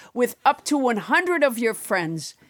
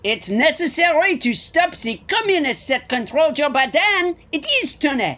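put-on French accent; 3 semitones higher than usual. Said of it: "French Trump".

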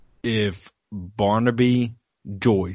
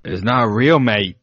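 bad Australian accent; 5 dB louder than usual. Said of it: "That was the worst accent I've ever done".

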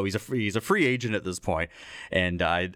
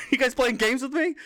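high, louder suspicious demands; suspicious pitcher; 4 dB louder than usual. Retold or imitated. Pitcher catches on to the prank callers, high and suspicious. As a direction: grill the caller, half laughing. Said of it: "He's like".

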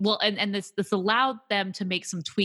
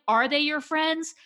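slow, higher disbelief; doubting friend, slow and higher; incredulous; 9 semitones higher, slower than usual. Retold or imitated. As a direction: question it in mock disbelief. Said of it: "I'm like".

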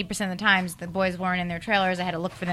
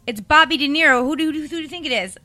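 retold irritated caller, higher and louder; mock indignation; 7 semitones higher, 5 dB louder than usual. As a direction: imitate an exasperated boss on the phone. Acting out irritated De Niro on phone.

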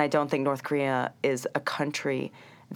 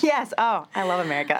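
higher, faster, louder gush; mock patriotic gush; 4 semitones higher, 4 dB louder than usual. Guest answering host, hammed-up patriotic gush. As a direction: overdo the love for the host.

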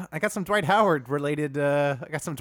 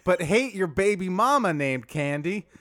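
a lightly drawled Dwight Howard impression; 2 semitones higher than usual. A podcaster telling Dwight Howard jokes in a light put-on voice. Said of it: "can we dial that accent up a little".

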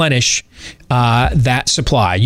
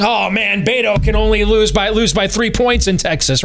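whiny mock lament, higher; mock bemoaning; 6 semitones higher than usual. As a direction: sigh it out like a mopey fan. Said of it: "we're all bemoaning".

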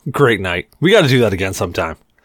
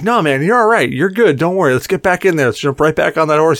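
reassuring; 4 semitones higher than usual. Retold or imitated. Reassuring his drunk friend.

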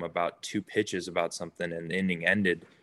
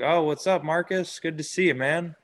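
much higher-pitched, thrilled hello; high-pitched imitation of an awed fan; retold starstruck greeting; 9 semitones higher than usual. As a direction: greet your idol, acting out being starstruck.

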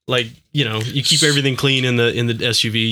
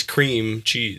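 CREAM drawn out slowly, cheese after it; emphasize CREAM in cream cheese; slow, leaning CREAM cheese; stress on CREAM; 4 dB quieter than usual. Shown as a demonstration. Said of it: "I would emphasize".

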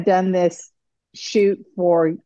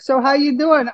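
put-on New York accent; 5 semitones higher than usual. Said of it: "the total New York accent".

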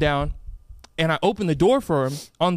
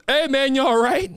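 higher-pitched call to someone who fell; imitated concerned call; 8 semitones higher than usual. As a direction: call out, playing the startled bystander. Retold stranger calling out after fall.

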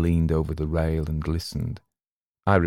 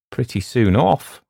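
higher, mildly huffy remark; touch of injury, raised at the end; slightly injured; 6 semitones higher, 4 dB louder than usual. A narrator's reading. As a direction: sound a little put out. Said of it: "just a little sense of injury".

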